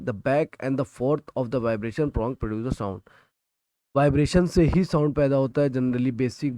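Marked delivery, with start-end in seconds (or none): 0.0-3.0 reading the textbook line word by word, slowly; slow, deliberate dictation for students to copy. Shown as a demonstration. Teacher dictating a textbook definition to students, slowly.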